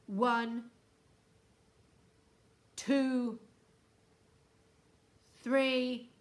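loud, commanding loudspeaker threat; booming ultimatum. A narrator's reading. Houston threatens to freeze the hotel, booming and stern. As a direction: boom it out like a stern official warning. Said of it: "boomed the voice".

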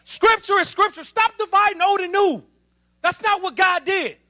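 real flash of anger at the church; got mad. Real, not acted. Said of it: "Sorry, I got mad right there".

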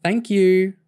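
sweet, grinning thank you; sweetly. A narrator's reading. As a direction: grin through the thanks. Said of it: "Kerry grinned sweetly".

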